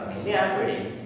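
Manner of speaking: "familiarity" with main stress on the AR syllable; shifted syllable stress. Shown as a demonstration. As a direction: lift the AR in "familiarity". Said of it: "It's in different syllables".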